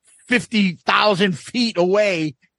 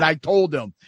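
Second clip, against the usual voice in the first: normal talking voice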